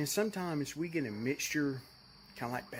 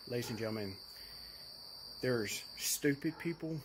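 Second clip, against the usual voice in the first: mock announcer.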